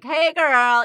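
mock stereotyped hey girl; stereotyped greeting. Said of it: "like what you had me say".

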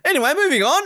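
high, loud mock brush-off. Mocking the interviewer moving on, high and loud. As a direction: wave it away in character. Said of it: "it was just like".

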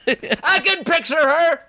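high, slow taunt. Pretend. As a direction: tease him in a squeaky voice. Taunting friend in play.

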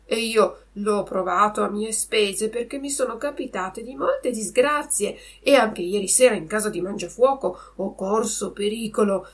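plain reading voice

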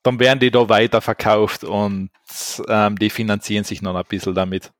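overdriven mic, distorted; clipping, too hot on the mic. Real, not acted. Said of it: "Du übersteuerst leicht".

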